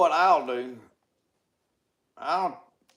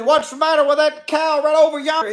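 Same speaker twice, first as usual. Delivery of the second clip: patrolman's question; 8 semitones higher, 7 dB louder, faster than usual. Retold or imitated. Patrolman questions the driver again.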